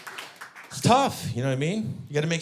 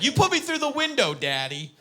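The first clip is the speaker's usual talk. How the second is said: put-on much higher little girl voice; daughter accusing; 12 semitones higher than usual. Throaty daughter repeating to dad, high childish accusation. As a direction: tattle it like a small kid. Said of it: "she's like".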